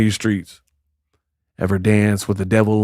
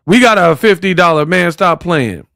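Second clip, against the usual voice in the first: Clarissa impression; 4 semitones higher, 3 dB louder than usual. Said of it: "that's how Clarissa talk".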